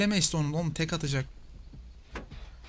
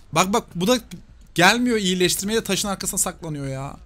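exasperated; 5 semitones higher, 5 dB louder than usual. Real, not acted. Complaining about teammate hiding.

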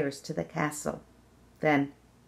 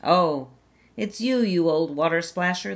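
princess voice; 5 dB louder than usual. Acted. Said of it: "the princess said".

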